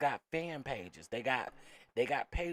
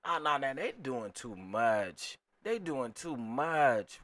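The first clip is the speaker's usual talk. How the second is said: louder, slowed, drawn-out disapproval; slow exasperated protest; 5 dB louder, slower than usual. Real, not acted. Telling viewers the accusers go too far, slow and exasperated. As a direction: drag it out, fed up.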